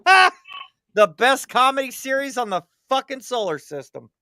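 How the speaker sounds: hammed-up cackling alien fan; delighted alien viewer. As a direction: point and laugh at Earth like a TV show. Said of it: "They're like".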